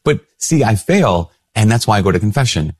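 sheepish admission. Retold or imitated. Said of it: "I'm like".

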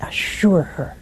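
hushed repeat of assure her; soft whispered emphasis. Shown as a demonstration. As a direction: breathe it as a whisper. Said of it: "He wanted to assure her".

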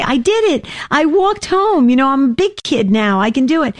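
put-on high, proud kid voice; a child bursting to tell mom he did it; excited little boy.

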